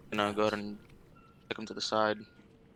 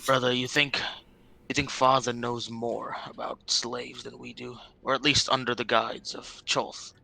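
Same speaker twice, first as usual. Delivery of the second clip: louder, clearly voiced repeat; whisper given up, louder; 5 dB louder than usual. Brother repeats the question after going unheard, louder. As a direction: say it up so it gets picked up. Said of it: "You're whispering too quiet, maybe".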